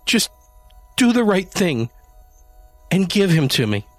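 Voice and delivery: high, loud menacing demand; shrill threat. A narrator's reading. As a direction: threaten him, pitch way up. Janie threatening Adam.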